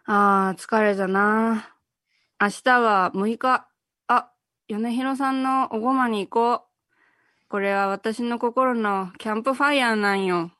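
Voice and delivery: tired office lady. Acted. Actress performs the requested commercial monologue, languidly. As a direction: play a mildly weary office worker talking to herself. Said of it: "マリエ風に今私が言うた演出をちょっとセリフに".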